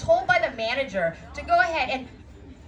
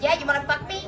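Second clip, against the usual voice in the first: mock challenge; 4 semitones higher, faster than usual. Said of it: "I turn around and I was like".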